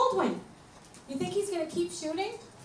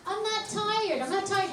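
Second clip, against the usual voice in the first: mock whiny child's voice, pitched up; whiny kid; 6 semitones higher, slower than usual. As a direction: whine it like a kid avoiding bed. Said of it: "You know how the kids say that".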